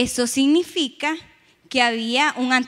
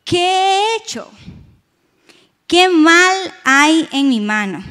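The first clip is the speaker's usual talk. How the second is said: pleading; 4 semitones higher, 8 dB louder, slower than usual. A narrator's reading. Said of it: "Y dijo".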